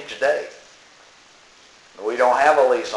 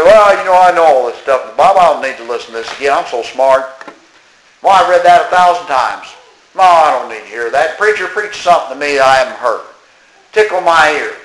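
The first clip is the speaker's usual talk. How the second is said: mock know-it-all; 5 dB louder than usual. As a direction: imitate a self-satisfied churchgoer brushing it off. Mimics complacent Bible listeners.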